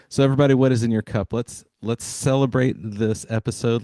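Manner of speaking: loud, fast, rallying call to the audience; calling out to everybody. Real, not acted. Podcast host rallies his listeners to raise their cups, loud and fast. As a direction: hype the listeners up, loud and quick.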